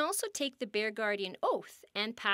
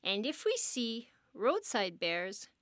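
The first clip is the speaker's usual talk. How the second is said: reciting an oath. Shown as a demonstration. Guardian leading visitors in the bear oath, measured solemn recital. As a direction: lead the crowd through the pledge line by line. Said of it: "raise your right hand and repeat after me".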